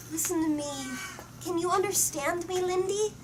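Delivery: put-on high, eager child's voice; child coaxing puppy. A narrator's reading. Annie pleads with her puppy, high and eager. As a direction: lift the pitch up, coaxing a pet.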